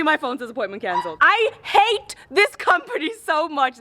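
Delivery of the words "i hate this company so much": slow, high, word-by-word fury; furious. Real, not acted. Customer fuming at the delivery company, slow furious emphasis. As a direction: drag out every word in exasperated rage.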